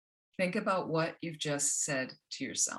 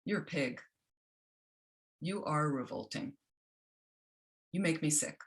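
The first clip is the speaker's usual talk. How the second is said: harsh inner critic. Retold or imitated. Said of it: "an inner voice that says".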